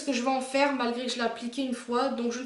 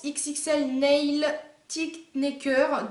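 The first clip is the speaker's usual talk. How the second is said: slow, careful English name in a French accent; bad foreign accent; much slower than usual. Real, not acted. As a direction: pick through the English words with a clumsy French accent. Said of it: "Désolée pour l'accent horrible". (accent français maladroit en anglais)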